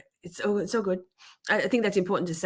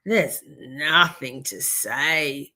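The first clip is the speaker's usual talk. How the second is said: dismissive retort; 4 semitones lower, much slower than usual. Retold or imitated. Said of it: "I'm like".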